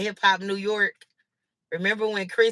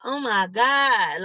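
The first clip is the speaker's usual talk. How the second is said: mock onlookers' gasp; 2 semitones higher, much slower than usual. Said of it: "Everybody around y'all is like".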